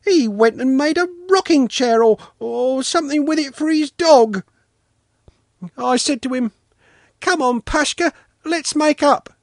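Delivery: put-on little boy's high, indignant wailing complaint; offended wail. A narrator's reading. Sanka denying he's a bourgeois, wailing in hurt protest. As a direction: pour out grievances in a high, loud child's voice. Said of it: "Sanka wailed, deeply offended".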